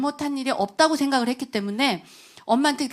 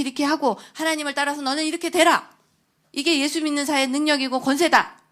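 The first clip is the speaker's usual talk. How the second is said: louder, quicker, driving the point home; preachy lecture; 2 semitones higher, 4 dB louder than usual. Retold or imitated. Mother drilling faith into her son, loud and fast. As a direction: lecture him step by step, pressing harder.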